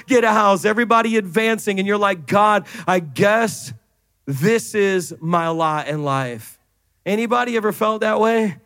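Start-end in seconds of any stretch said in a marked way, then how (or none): 2.3-6.6 slow, resigned prayer, sinking lower at the end; mild resignation. Acted. Worn-out believer giving up to God, mildly resigned. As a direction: give in slowly, a little beaten down. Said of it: "you are so beat down".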